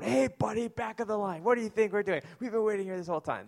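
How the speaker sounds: hammed-up New Yorker telling someone off; East Coast line rage. Pastor playing East Coast bank customers scolding a line-cutter, in a high mock yell. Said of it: "starts freaking out".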